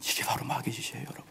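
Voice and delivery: hushed, breathy whisper. Real, not acted. Preacher warning the congregation about the devil, whispered. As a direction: lean in and whisper it like a secret. Preacher drops to confiding aside.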